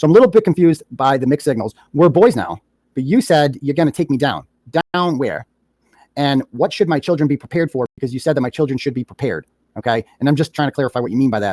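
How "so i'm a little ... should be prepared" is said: ordinary talk, nothing marked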